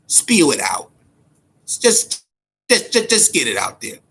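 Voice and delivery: whispered taunt. Real, not acted. Taunting muttered aside.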